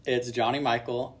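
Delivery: Michael said MY-kul; clear, proper Johnny Michael; correct name. Shown as a demonstration. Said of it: "contrary to popular belief".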